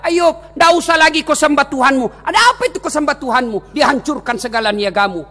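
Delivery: lightly voiced devil, high-pitched goading; a hint of a taunting tempter; tempting devil. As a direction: goad him as the devil would. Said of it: "Datang iblis menggoda".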